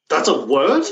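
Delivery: retold disbelief, rising questioning tone; incredulous. Learner reacting to one long Japanese word, incredulous.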